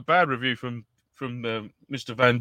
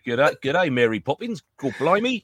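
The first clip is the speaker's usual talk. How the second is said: Australian slipping into mock Cockney; Aussie attempt gone Cockney; mock bad Australian; slower than usual. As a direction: mimic a botched Australian accent. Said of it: "how shit he is at Australian accents".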